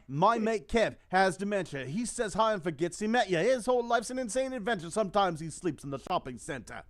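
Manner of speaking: put-on impersonating an elderly British rapper; Patrick. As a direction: do your best old British rapper, rhythmically. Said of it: "do my best Patrick impersonation".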